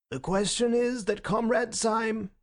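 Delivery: high, formal recitation, cut off; mechanical chairman. A narrator's reading. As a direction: rattle off the motion like procedure. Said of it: "with mechanical rapidity".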